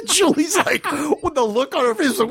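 laughing while talking. Real, not acted.

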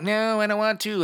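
high whiny comic protest; Kevin Hart. Acted. Adult dodging kids' Super Soakers, high comic impression. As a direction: put on a high comedian's refusal. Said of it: "That's my Kevin Hart voice".

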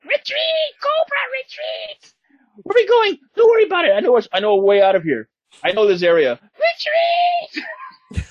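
very high squealing commander cries; hammed-up cowardly villain fleeing; shrill villain retreat. Friend imitating Cobra Commander shrieking retreat.

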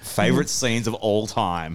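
slow, questioning repeat; questioning echo. Real, not acted. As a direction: echo it slowly as a challenge. Challenges a big claim, slowly.

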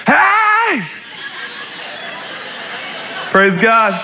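spring in like Tigger; mock cheerful shout; bouncy Tigger hey. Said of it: "like Tigger".

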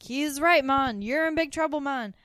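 terrible put-on island accent, high and loud; Carlene. Podcaster mimicking a woman's worst accent ever, bad Bermudan accent. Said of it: "continuing the worst accent ever".

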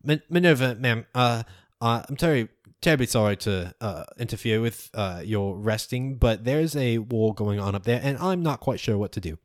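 mildly breathless, stammering; a touch winded after the dive; out of breath. Acted. Sully reporting to Minerva after swooping down, lightly breathless. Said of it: "he looks out of breath and he says".

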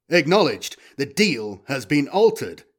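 deliberate robotic verdict; war robot. Acted. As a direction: state it like a machine. Robot rules on the deal.

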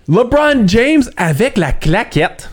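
hyped commentator call. Retold or imitated. Analyst imitating his colleague's on-air call of a putback, high and stretched out. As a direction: drag it out like a colleague showing off his new word on air. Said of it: "Fait que là, il sort, genre".

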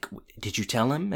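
imitating a quiet word between friends; hushed aside. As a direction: ask it discreetly, under the voice. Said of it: "talking quietly to each other".

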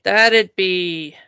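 slow pirate agreement. Acted. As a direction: grumble it like an old sea dog. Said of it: "it be talk like a pirate day".

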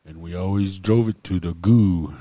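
"goo" for goal, final L left off; dropped L. Shown as a demonstration. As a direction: Crow accent with "goo" ending on a long vowel. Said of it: "never had the letter L".

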